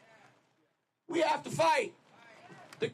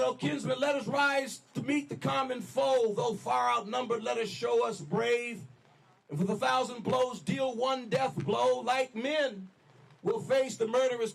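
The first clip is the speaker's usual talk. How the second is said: roaring rallying speech; 2 semitones lower than usual. Retold or imitated. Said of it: "He said".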